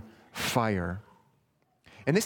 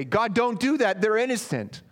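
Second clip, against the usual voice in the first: high, loud protest of innocence; a wrong, insistent prayer; mock demanding prayer; 9 semitones higher, 4 dB louder than usual. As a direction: argue with God as if blameless. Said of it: "Amos does not say".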